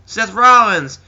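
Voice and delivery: loud, high name announcement; Jon Stewart. Retold or imitated. Host announcing a wrestler to the crowd, loud high call. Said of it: "Jon Stewart just kinda came out and just like".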